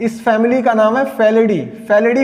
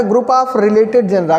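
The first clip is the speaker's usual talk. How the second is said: slow dictation pace; much slower than usual. Shown as a demonstration. Teacher dictating a definition to students, slowly. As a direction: spell out group of related genera word by word. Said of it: "अगर हम definition लिख लें".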